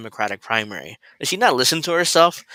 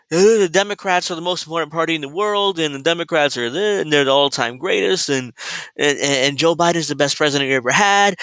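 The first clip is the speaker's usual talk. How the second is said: higher, pushier mock of her gushing; mocking impression; 4 semitones higher than usual. Mocking the woman in the clip: sing-song higher parody. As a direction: lampoon her breathless cheerleading for the party. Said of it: "She talks like this".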